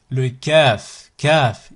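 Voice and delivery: Kaf with a light front K and open vowel; light sound. Shown as a demonstration. Teacher demonstrating the letter Kaf, light K. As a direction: keep Kaf light, not backed. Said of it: "c'est un son raqiq, léger".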